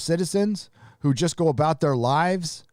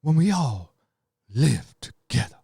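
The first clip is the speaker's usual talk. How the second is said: mocking Oscar speaker. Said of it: "talking like this".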